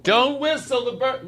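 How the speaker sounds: high, mocking mom voice; mock mom warning. Son imitating his mother's warning, high and mocking. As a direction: squeak out mom's rule.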